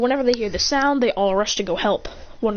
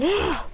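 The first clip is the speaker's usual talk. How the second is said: short high exertion cry; effort cry; 8 semitones higher than usual. Acted. Villain pushing back the bear, effort cry. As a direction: cry out while shoving.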